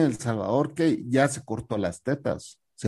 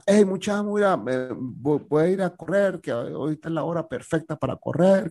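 high, bubbly call to the group; Ana's cheery announcement; 5 semitones higher than usual. Retold or imitated. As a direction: announce the run cheerfully, pitched up. Ana announces going running. (anuncio alegre y agudo)

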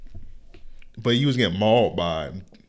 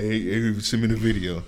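lightly imitated celebrity voice; Shaq; 3 dB quieter than usual. Friend showing how he read Shaq's message, lightly imitated. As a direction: slip casually into his voice. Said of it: "read it in a nigga's voice".

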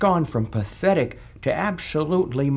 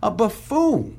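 a hint of a Southern drawl, louder; lightly drawled A buffoon! with a louder stretched buffoon; mock Southern drawl; 5 semitones higher, 4 dB louder than usual. Ghost mocks the senator's campaign line in a mild Southern drawl. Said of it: "yabbering with your silver-tongued southern drawl".

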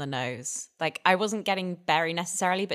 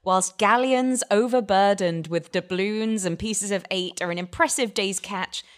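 hammy stage actor. Pretend. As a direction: read it like a pompous stage actor. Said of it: "can I get you to read the back of this".

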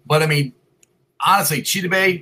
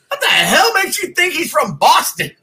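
laughing disbelief; 13 semitones higher, 4 dB louder, slower than usual. Retold or imitated. Retelling his incredulous reply.

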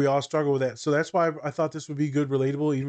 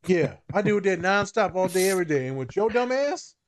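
angry boss; 6 semitones higher than usual. Pretend. Therapist scolding client.

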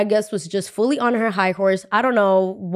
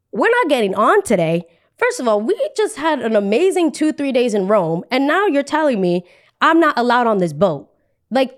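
higher, emphatic protest; indignant disbelief; 4 semitones higher than usual. Retold or imitated. Passenger refused boarding on the day, indignant disbelief. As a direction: push back in offended disbelief.

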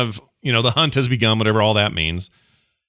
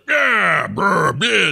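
dude bro grunt; 9 semitones higher, much slower than usual. Retold or imitated. To the cohost, mocking Warcraft's dude bro war vibe, higher mock grunt. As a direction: ham up a brawny warrior's grunt. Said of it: "dude bro war stuff".

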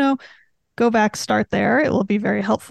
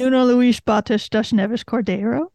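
Portuguese name in an American accent; anglicised Portuguese name. Shown as a demonstration. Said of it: "It's not good, but it's not bad".

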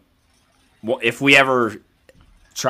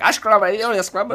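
mimicking a strong Philly accent, pitched up high; thick Philly accent; 10 semitones higher than usual. Imitating a Philly accent overheard on a phone call. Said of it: "Speaking some crazy shit".

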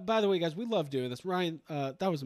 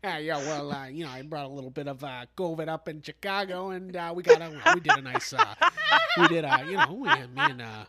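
Dan Aykroyd; 5 dB louder than usual. Acted. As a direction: stammer through a badly faked star voice. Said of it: "that's my bad Dan Aykroyd".

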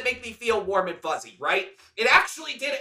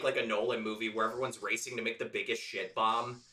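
lower, laughing pitch of the idea; 12 semitones lower, 10 dB quieter than usual. Real, not acted. Host pitches a Nolan shit-bomb movie, laughing.

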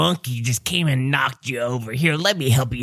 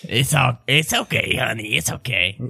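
gently comforting a spouse; lightly acted tender consoling; soothing reassurance. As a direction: let the pitch settle as you reassure. Voicing dad comforting mom.

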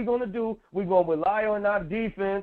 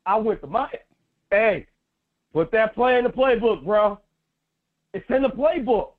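louder, excited retelling; quoting Cooks; 4 dB louder than usual. Retold or imitated. Player retelling his playbook request, louder and hyped. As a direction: hype it like the player did. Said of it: "Then he goes into".

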